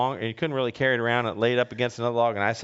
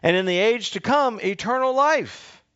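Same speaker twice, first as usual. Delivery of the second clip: raised, measured reading of the Gospel; scripture reading; 4 semitones higher than usual. Acted. Pastor reading the Gospel aloud to the congregation, proclaiming.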